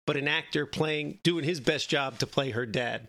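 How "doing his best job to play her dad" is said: fighting back tears on the last words; choked up. Real, not acted. Telling friends about his mother's dad on TV, voice choking up. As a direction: voice catching with real emotion. Emotional climax of mother's story.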